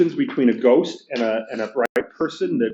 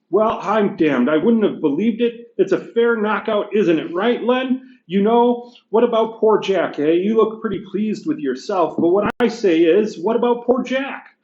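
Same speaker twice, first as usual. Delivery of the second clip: higher, indignant working-class ghost; gruff big ghost; 8 semitones higher than usual. Acted. Teacher reading the ghost complaining to the bright spirit, indignant. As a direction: bluster like an aggrieved ghost.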